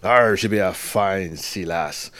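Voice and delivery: slow lightly growled pirate talk; a hint of an old sea dog. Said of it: "I am not doing my pirate voice".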